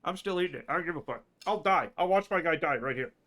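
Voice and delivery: soft stubborn muttering; quiet mutter. Real, not acted. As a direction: mumble it to yourself. Muttering defiantly while eating.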